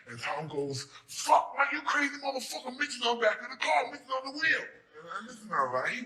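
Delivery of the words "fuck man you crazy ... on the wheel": high, loud alarm at the crazy guy; panicked warning. Retold or imitated. Driver Tom warning him that Mitch is on the car, panicked shout.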